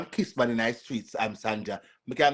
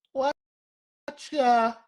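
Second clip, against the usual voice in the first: gotcha; 13 semitones higher, 3 dB louder, slower than usual. Real, not acted. Catching out a viewer.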